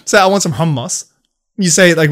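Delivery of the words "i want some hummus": "hummus" with a strong, breathed H at the start. Shown as a demonstration. Friend showing how to order hummus, strong H on "hummus". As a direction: lean on the H of "hummus". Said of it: "with a nice, strong ha".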